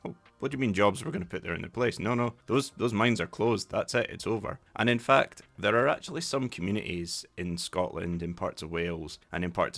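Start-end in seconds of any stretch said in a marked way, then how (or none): 0.1-4.6 mock dismissive, slightly raised voice; dismissive Thatcher. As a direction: brush the question off as Thatcher, briskly. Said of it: "It was this kind of attitude of".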